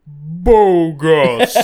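loud laughing cheesy line; hammed-up cheesy one-liner. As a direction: belt it out through a laugh. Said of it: "That has to be the cheesiest".

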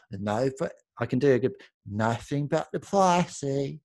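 slow, slurred Katie Price drawl; a hint of Katie Price sounding drunk. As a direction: lightly mimic her drunk-sounding drawl. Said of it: "That's how she talks".

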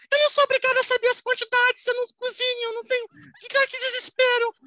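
high thin flustered voice. Retold or imitated. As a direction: fret in a tiny thin voice. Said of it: "ela fala fininho".

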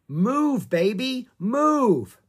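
high, loud urgent title; urging shout. A narrator's reading. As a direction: call it out like an order. Chapter title voiced as shout.

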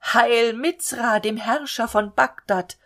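loud, slow cheering shout; crowd shouting. Acted. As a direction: hail him like a cheering crowd. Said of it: "alle schrien".

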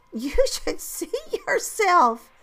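put-on high, slow and loud kid voice; giggly child. A narrator's reading. Children teasing their dusty teacher, giggly child voice. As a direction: squeal it like a tickled child. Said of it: "they started to giggle".

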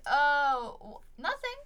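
high, stumbling imitated denial; mock flustered cover-up. Prank answerer caught by caller, high mock flustered denial. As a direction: stumble innocently, pitch shooting up at the end.

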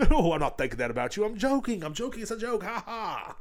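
high, squeaky backpedalling; mock placating. Host soothing an offended friend, mock high-pitched reassurance. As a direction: plead innocence in a high voice with a fake laugh.

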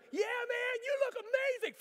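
put-on shouting to the kid far overhead; cheering shout. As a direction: holler upward, thrilled. Shouting up to flying brother.

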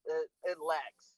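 glitchy, breaking-up connection audio; choppy robotic voice like a bad call. Real, not acted. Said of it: "you sound like a robot right now".

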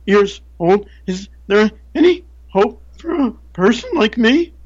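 put-on high, halting voice of a frightened older woman; timid woman's voice. Speaker imitating the woman asking for hope, high and halting. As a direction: stammer it out, small and high, pleading. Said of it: "and she goes".

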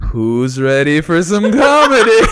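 slow build to a loud shout; drawn-out MC yell, swelling to the end; hammed-up hype call. Host opening the show at twelve A M, hammed-up hype shout. Host hyping crowd after midnight.

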